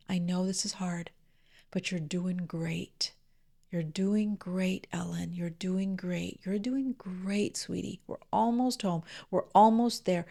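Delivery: tender grandmotherly reassurance; soft loving tone. Retold or imitated. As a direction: soothe a wailing child in the grocery store. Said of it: "in this really soft and loving tone".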